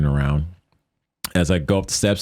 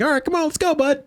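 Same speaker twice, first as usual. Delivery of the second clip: high, eager go-ahead to a buddy; retold rallying cry. Speaker waving on his new follower, retold rallying cry. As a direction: urge him along, pitched right up.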